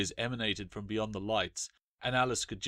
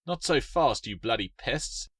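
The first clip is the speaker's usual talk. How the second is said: cried; 2 semitones higher, 3 dB louder than usual. Acted. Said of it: "the custodian cried".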